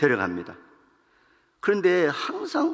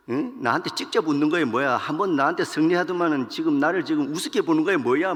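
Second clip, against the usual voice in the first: angry king; 2 semitones higher than usual. Acted. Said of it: "막 화가 나가지고".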